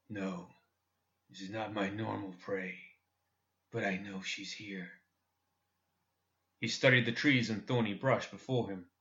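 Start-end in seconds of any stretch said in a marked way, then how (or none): 0.1-5.0 hushed, level, much softer voice; soft, controlled answer to a doubter; low and even. A narrator's reading. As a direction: keep it very quiet and steady. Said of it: "His voice was low and even as he said".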